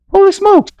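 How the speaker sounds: high astonished exclamation; holy smokes. Retold or imitated. Pastor recalling reading the study, amazed. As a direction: gasp it out in shock. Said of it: "I was like".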